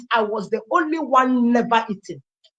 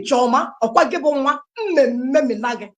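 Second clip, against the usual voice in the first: mock-stern mother, mildly raised pitch; mother's threat; 2 semitones higher than usual. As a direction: imitate a mother threatening her daughter in Igbo. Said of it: "Let me speak it the way she spoke it".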